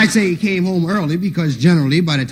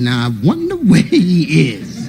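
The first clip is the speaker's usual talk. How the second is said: sly slow taunt; slower than usual. Retold or imitated.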